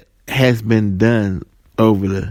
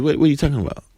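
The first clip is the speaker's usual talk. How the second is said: higher, stammered retold question; mock confusion; 4 semitones higher, 3 dB quieter, much faster than usual. Joe answers the supervisor who fired him, mock confusion. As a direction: play at being baffled, lightly. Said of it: "he's confused".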